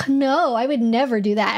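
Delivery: imitated sarcastic tone. Acting out how someone answers a flirting question: imitating a sarcastic denial. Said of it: "really sarcastic".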